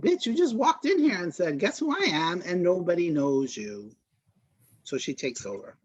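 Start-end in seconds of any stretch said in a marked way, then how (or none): 0.0-3.9 raised pitch, settling as the put-down lands; indignant retort. Acted. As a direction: tell her off in mock outrage. Imagined retort to the villain.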